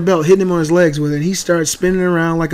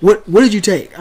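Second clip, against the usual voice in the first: retold screaming; 3 dB louder than usual. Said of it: "I'm screaming at this point".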